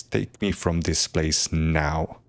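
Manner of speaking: slow, menacing command. Acted. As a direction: drop into a slow threat. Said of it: "Flame flickers in Callista's eyes".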